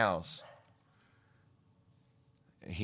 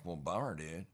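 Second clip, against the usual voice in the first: valley dude; 3 semitones lower, 6 dB quieter than usual. Retold or imitated. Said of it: "That's where the Valley talk came from".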